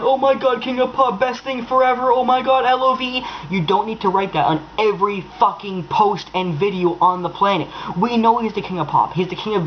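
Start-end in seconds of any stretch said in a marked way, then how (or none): 0.0-3.2 a hint of a swooning superfan, somewhat higher; mock gushing fan. Mocking fans who post the same praise, light gushing parody. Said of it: "You don't need to write down".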